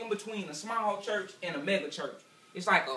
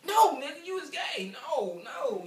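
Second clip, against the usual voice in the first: laughing denial; 7 semitones higher, slower than usual. Acted. Mocking the listener.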